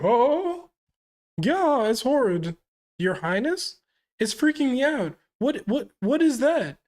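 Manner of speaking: high, shrill-free panicked shrieks of a mother recoiling; horrified queen. Acted. Queen recoiling from her baby, high horrified cries. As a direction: recoil in horror, voice jumping up high.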